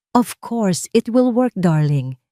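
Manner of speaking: a light hint of a smug mistress; Marikit's smug voice. A narrator's reading. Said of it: "sabi ng boses ni Marikit". (mayabang na boses ni Marikit)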